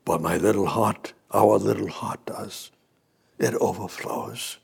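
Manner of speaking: soft whisper, trailing off; whispered tenderly. Real, not acted. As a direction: let it fall to a whisper. Tender hushed close.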